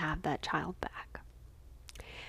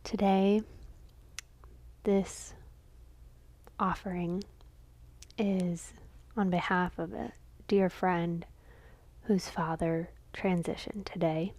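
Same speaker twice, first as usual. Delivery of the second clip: measured dedication with long pauses; contemplative offering. Real, not acted. Lighting a candle for a friend's father, reverent offering. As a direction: let each phrase rest in silence.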